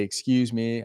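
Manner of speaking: soft, easy, unforced approach; gently calm, no aggression. Shown as a demonstration. Coach showing how he approaches a girl, calm voice. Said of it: "calm voice".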